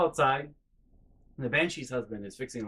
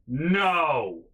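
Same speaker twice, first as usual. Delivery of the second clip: imitated reply; 5 dB louder than usual. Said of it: "I wanna text her back".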